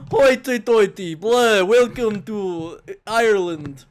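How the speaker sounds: hammed-up vampire, loud, slow and high; Dracula. Host replaying co-host's Irish attempt as a mock vampire. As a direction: parody a bad accent as a vampire. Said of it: "You did, like, fucking Dracula".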